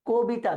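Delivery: কবিতা as "ko-bita"; closed pronunciation. Shown as a demonstration. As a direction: narrow the mouth on the first vowel of কবিতা, a closed o. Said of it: "সংবৃত উচ্চারণ".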